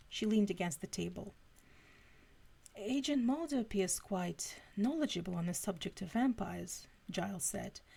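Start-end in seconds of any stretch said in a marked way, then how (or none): 2.8-6.9 lightly put-on British accent; Giles's British accent. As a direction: read it with a hint of a British accent. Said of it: "I read that in Giles's accent".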